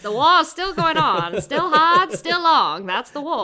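put-on loud, high old-time newsreel announcer; 1930s voice. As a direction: boom it out like a vintage newsreel. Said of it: "I have nineteen thirties voice".

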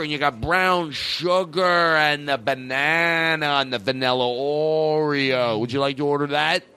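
a waiter who can't stop saying "and then", slowing down at the end; rambling waiter. Retold or imitated. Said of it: "there'd be me going".

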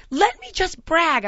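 high, loud, slow mock plea; bragging mom. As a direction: insist slowly as an imitated mother. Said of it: "And she's like".

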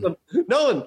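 ordinary talk, nothing marked

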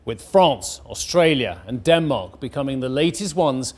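measured newsreader delivery; crisp headline-story read; news read. Acted. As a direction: read it as a bulletin, landing key words. Reads the news bulletin.

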